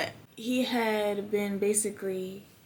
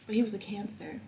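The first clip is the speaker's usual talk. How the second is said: whispered aside; a quick whispered jab about his star sign; 5 dB quieter than usual. Real, not acted. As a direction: let it slip under your breath. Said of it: "whispered aside".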